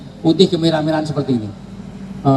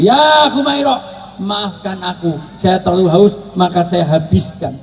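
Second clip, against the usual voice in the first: tender apology; 3 semitones higher than usual. Retold or imitated. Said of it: "buat hubungan yang mesra".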